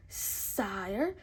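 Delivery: slow odd puppet voice; merry men's skit, slow puppet snake voice. Pretend. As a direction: play the glove puppet snake slowly. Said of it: "asked the fake Hiss".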